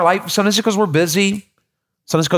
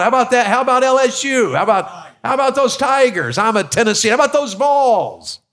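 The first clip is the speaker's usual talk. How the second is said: fan cheers; 5 semitones higher than usual. Retold or imitated. Rallying fans in the crowd.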